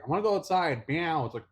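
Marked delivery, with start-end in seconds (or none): 0.0-0.9 high, loud pet-cat demand; pushy high-pitched cat voice. Retold or imitated. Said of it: "He'd just be like". 0.9-1.2 high cat meow; mimicked pet cat cry; imitated meow. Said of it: "He'd just be like".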